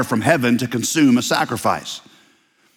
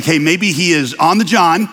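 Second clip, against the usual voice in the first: lightly taunting trash talk; smack talking; 2 semitones higher than usual. Acted. Elijah ribbing rivals whose god is silent, mild smack talk. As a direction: needle them with a touch of mockery. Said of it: "That's called righteous smack talking".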